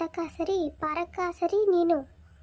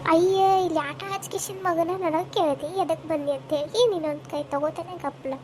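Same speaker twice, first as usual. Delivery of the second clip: indignant wife; 4 dB louder than usual. Acted. Wife retorts in quarrel.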